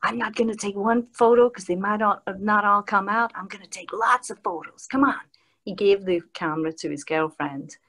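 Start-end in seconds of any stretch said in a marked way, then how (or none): 0.0-5.2 lightly imitated star, a bit higher; a hint of the actor's voice; Kiefer Sutherland. Actor agreeing to photos with a fan, lightly imitated. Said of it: "And he goes".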